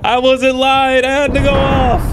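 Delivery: loud, high shout; real outburst shouting at the game; going off. Real, not acted. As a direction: let it rip at the top of your voice. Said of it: "it's time for me to go off".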